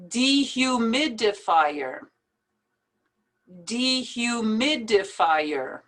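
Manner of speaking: "Dehumidifier" broken into careful syllables. Shown as a demonstration. Teacher helping learners practise it, syllable by syllable. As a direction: separate each syllable of "Dehumidifier". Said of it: "best to pronounce it in syllables".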